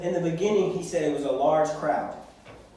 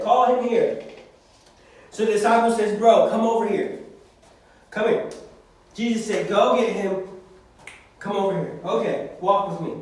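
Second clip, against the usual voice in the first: louder, summoning call; 4 dB louder than usual. Acted. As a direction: call him across the crowd. Jesus and disciple calling out.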